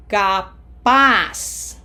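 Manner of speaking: Capaz as ca-PAS, last syllable loud. Shown as a demonstration. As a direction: stress PAZ in Capaz and end on an s sound. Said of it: "Remember the Z sounds like an S".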